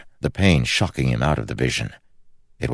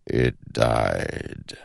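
slow ancient shadow voice; 3 semitones lower than usual. Acted. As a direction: speak like a patient shadow god. The shadow speaks.

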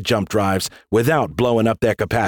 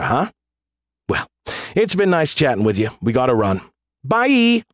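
lightly mocking, mock-innocent taunt; taunting general. General taunting a beaten enemy, mocking.

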